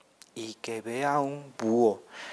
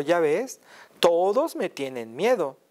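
boastful; 5 semitones higher, slower than usual. Acted. Mouse boasting to the Gruffalo.

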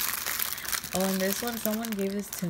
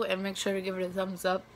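talking around chocolate; mouth full. Real, not acted. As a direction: say it while chewing chocolate. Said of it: "sorry, I'm eating chocolate".

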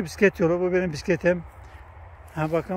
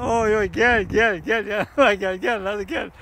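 raised coaxing call to come closer; calling out to cattle; slower than usual. Real, not acted. Man calling the cattle over to him, raised coaxing call.

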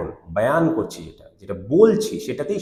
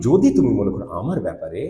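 sorrowful intonation; 4 semitones lower than usual. Shown as a demonstration. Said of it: "ইন্টোনেশনের মাধ্যমে আমি বোঝানোর চেষ্টা করি".

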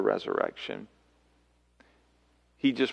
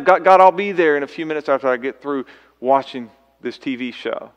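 mock lazy reply; 3 semitones higher, 8 dB louder than usual.

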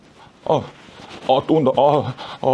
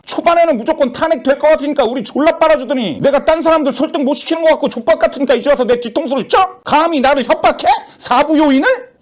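higher, aggrieved tirade; indignant accusation; 4 semitones higher than usual. Acted. Judge accusing his friend of turning on him, indignant. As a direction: pour out the grievance at a raised pitch.

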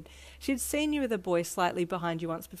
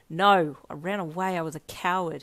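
firm, a bit louder self-reproach; bitter at himself, lightly played; mildly angry; 6 dB louder than usual. Ichiro blaming himself for running away, mildly angry. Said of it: "his voice low and angry".

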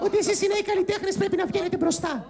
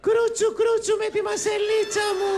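mock chewing old lady; slower than usual. Old lady character teasing, chewing sounds.

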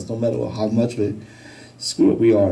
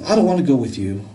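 higher-pitched imitated refusal; child's attitude; 4 semitones higher, faster than usual. Daughter turning down Dad's merry-go-round invite, with attitude. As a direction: imitate a kid refusing Dad. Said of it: "what's up with the attitude".

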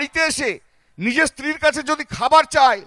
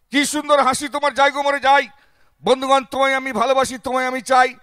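politician's speech; 2 semitones higher, 3 dB louder than usual. Retold or imitated. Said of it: "ভাষণের আকারে".

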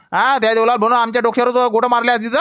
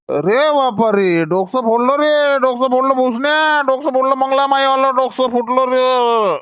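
dying wail; slower than usual. Acted. Man hit on head with rock.

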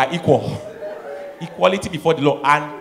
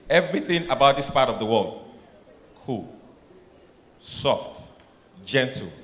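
soft gentle delivery; 5 semitones lower, 6 dB quieter than usual. Acted. Describing gentleness softly.

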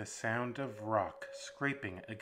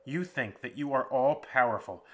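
defiant captive; 3 semitones higher, 6 dB louder than usual. Acted.

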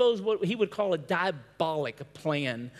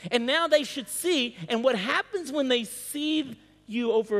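higher-pitched, emphatic exposition; fervent preaching; 7 semitones higher, 4 dB louder than usual. Real, not acted. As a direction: drive the scripture home to the congregation. Preaching with rising fervour.

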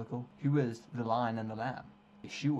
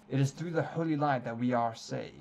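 holy brother; 4 dB louder than usual. Acted. Reads Brother Paxton's lines.

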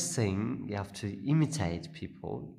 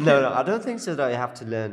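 laughing; 3 semitones higher, 7 dB louder, faster than usual. Real, not acted. Laughing protest about accents.

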